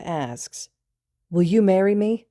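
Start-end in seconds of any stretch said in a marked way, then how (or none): 1.3-2.3 high, loud mock proposal; tipsy proposal. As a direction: propose grandly like a tipsy romantic. Drunk student proposing on one knee.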